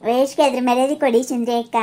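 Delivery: a put-on prim voice aping the mother-in-law; mimicking the mother-in-law's lecture in a lightly altered voice; mocking imitation of mother-in-law. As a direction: parrot her words back with a sneer. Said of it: "ನಿಮ್ಮ ಅತ್ತಿ ಬಂದ್ಬಿಟ್ಲಿ ಇಲ್ಲಿ ಹೇಳಕ್ಕಿ".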